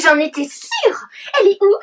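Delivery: giddy laughing shout; laughing excitedly. Acted. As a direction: laugh it out, thrilled. Fawning over Lynch. (riant, tout excitée)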